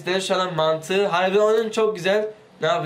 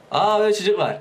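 usual speaking voice

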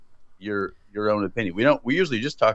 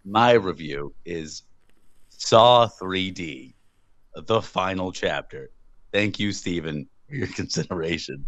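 mock solemn reading; 5 semitones lower than usual. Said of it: "mock solemn reading of review".

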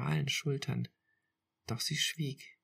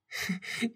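a sudden high laughing sob; laugh through tears; 8 semitones higher than usual. A narrator's reading. Girlfriend laughs through her tears at the sunset. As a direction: burst out laughing while crying. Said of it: "Sie lachte unter Tränen".

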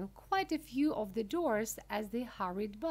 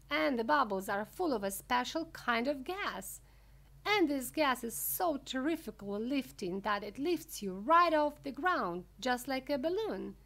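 high, eager showman explaining; Mister Wonka, excited; 5 semitones higher, 5 dB louder than usual. Acted. Wonka explaining fizzy lifting drinks, high and eager. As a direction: build it up with lively wonder.

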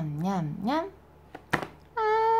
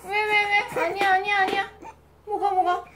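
higher, coaxing soothing voice; 8 semitones higher than usual. Real, not acted. Mother soothes fussing baby, higher coaxing voice.

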